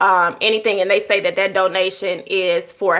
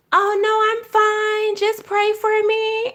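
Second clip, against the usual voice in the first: dismissive polite voice; 13 semitones higher, slower than usual. Retold or imitated. Mock polite brush-off quote.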